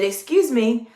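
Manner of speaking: polite reminder at an easy volume; friendly, courteous correction; friendly check. Shown as a demonstration. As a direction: check them kindly, without dropping the volume. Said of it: "my tone of voice was still very friendly".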